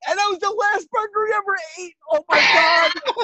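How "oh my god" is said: loud, slow exclamation half laughing; overwhelmed by the memory. Real, not acted. Reacting to the ketchup story.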